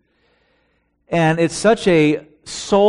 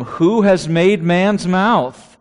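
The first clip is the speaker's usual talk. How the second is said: God speaking; 3 semitones higher, 3 dB louder, slower than usual. Retold or imitated. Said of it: "Then the Lord said to him".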